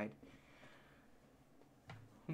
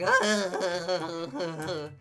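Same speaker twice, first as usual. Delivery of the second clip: drawn-out wobbly cracked groan; wavering voice-crack sound; cracking voice noise. Shown as a demonstration. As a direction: imitate a breaking voice with one long noise. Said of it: "yeah, my voice is cracking. Yeah, it's like".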